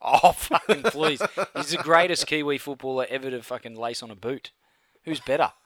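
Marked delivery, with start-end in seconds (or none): 0.1-4.5 laughing through a scornful retort. Real, not acted. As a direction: scoff with a laugh in the voice. Mock outrage over a rival player.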